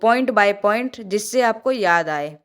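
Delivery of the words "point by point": each word of point by point stretched out and firm; slow emphatic dictation. Shown as a demonstration. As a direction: lay it down slowly so they copy it. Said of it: "आप भी note ऐसे ही करना". (धीमे और ज़ोर देकर)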